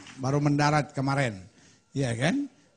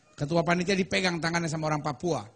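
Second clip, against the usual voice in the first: ordinary talk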